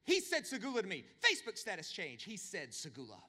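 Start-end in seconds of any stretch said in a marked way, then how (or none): 0.0-1.0 put-on over-the-top thrilled girlfriend; squealing excitement. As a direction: shriek it to her best friends. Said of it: "and says".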